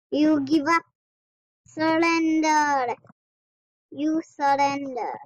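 slow, stretched demand to give up; mock commanding. Kid bossing opponents in the game, slow mock commanding. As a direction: drag out surrender like a playground tyrant.

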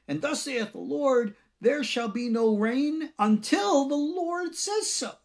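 slow, high, grand biblical decree; prophetic proclamation. Pretend. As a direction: intone it like a prophet of old. Mock prophet's pronouncement.

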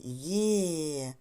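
«є» held long as a clear «ye»; model sound «є». Shown as a demonstration. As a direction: demonstrate «є», stretching out the vowel. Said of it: "Подивіться, як Єва вимовляє". (протяжно вимовляє «є» для повторення)

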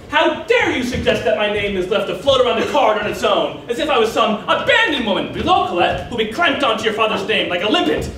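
mildly outraged retold mother; indignant mother. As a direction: take offence, swooping through each grievance.

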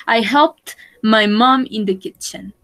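helped with its T clearly heard; ending sounded. Shown as a demonstration. Teacher reminding class how helped sounds. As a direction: let the end of helped be heard. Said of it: "So remember".

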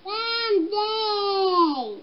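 mock yell out a window. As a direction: call the name long, falling away. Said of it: "Mike yelled out the window".

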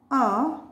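"a" said uh, as in under; short U sound. Shown as a demonstration. Teacher revises short vowels with learners, "a" said uh. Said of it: "The short sound of U".

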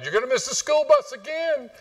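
high-pitched mock yell of a nagging mom; hollering up the stairs as an impatient mother; shrill-free high mom call across the house. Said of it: "Mom yells out".

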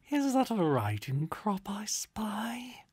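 slow, whispered coy question; teasing whisper. A narrator's reading. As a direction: whisper it like a naughty secret. Spirit teases Duke.

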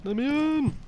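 high urgent shout to be let in. Real, not acted. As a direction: yell to be let in. Teammate blocking the door, shouting.

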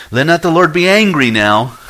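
a cautious, pressing appeal; mild pleading. Acted. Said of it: "Then he said".

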